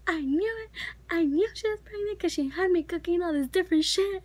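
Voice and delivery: grandma rushing in, triumphant about the pregnancy; grandma's excited I-knew-it. Retold or imitated. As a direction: play a grandma who saw it coming. Grandma triumphantly reacting to news.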